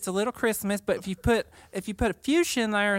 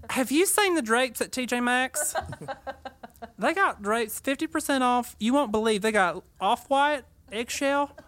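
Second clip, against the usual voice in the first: mock Southern accent; 3 semitones higher than usual. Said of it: "we just talk like".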